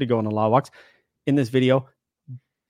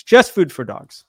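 louder hype slogan call-out; wrestling promo; 3 semitones higher, 5 dB louder than usual. Pretend. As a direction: belt it out like a wrestler. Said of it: "I'm gonna do a real promo".

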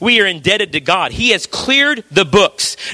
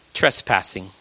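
hushed emphasis; 10 semitones lower, 6 dB quieter than usual. Acted. Preacher drops voice on key word.

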